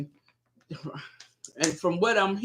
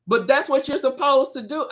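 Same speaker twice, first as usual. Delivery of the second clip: high, mock-insistent argument; playful retold objection; husband protesting; 7 semitones higher, 3 dB louder than usual. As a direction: imitate him pleading his case, pitched up.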